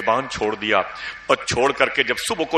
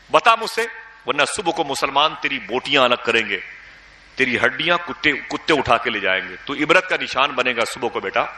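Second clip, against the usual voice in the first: threatening scold. Retold or imitated. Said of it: "بہت ڈانٹا".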